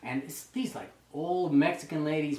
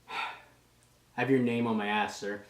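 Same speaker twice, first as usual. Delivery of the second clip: slow, lower, deadpan confession; deadpan recruit; 5 semitones lower, slower than usual. Retold or imitated. Recruit confessing his tattoo to the drill instructor, deadpan. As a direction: imitate a recruit answering with a straight face.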